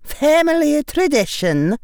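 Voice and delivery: high, loud, stern teacher's voice; stern witch professor. A narrator's reading. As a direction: speak like a strict old witch addressing a boy. McGonagall voiced by narrator.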